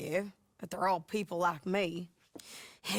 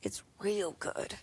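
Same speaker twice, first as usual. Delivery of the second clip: whisper. Acted. Bounty hunter tempting John with the money, whispered. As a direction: lean in and whisper it like a secret. Hushed aside about the money.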